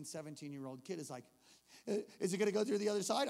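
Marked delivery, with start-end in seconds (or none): 1.9-3.3 quick, raised worried question; anxious kid. Retold or imitated. Kid asking in the dark tunnel, anxious. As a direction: imitate a nervous kid asking.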